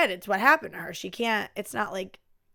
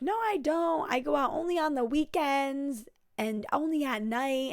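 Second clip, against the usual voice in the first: lightly voiced sister, higher and defensive; defensive denial; 5 semitones higher than usual. Sister denying she goes out every night, mildly mock defensive. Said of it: "And she's like".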